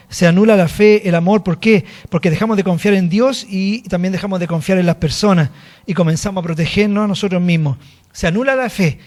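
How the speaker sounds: preaching. Acted. Pastor preaching to the church about forgiveness, forceful. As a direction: drive the point home to the congregation.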